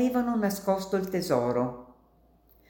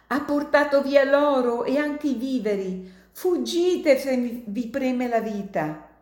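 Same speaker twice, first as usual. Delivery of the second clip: put-on dying old miner; 8 semitones higher than usual.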